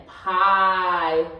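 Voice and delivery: "Pilot" with the first vowel held long, piiie, then lit; "Pilot" split, its long I drawn out with extra volume; long vowel sound. Shown as a demonstration. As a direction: stretch the "pi" of "Pilot" loudly, then a separate "lot". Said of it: "has a vowel sound at the end".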